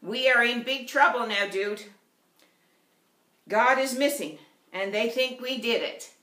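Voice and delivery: mock out-of-breath boy; panicked boy. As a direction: blurt it out in a frightened rush. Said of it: "gasping for breath".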